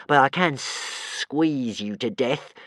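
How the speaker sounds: slow, pleased monster voice; a touch of glee; brightened creature. Acted. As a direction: perk up with a threat. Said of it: "He brightened up".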